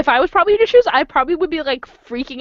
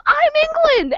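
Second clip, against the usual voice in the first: posing as England. Retold or imitated. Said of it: "starts posing like England and goes".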